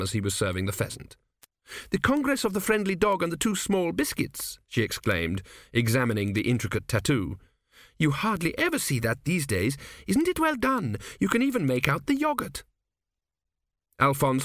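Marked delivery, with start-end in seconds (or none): 1.9-4.6 lightly raised lady's exclaim, higher. A narrator's reading. Petracci exclaims over the tattoo, in a higher lady's voice. 8.0-12.6 lightly raised lady's exclaim, higher. A narrator's reading. Petracci exclaims over the tattoo, in a higher lady's voice.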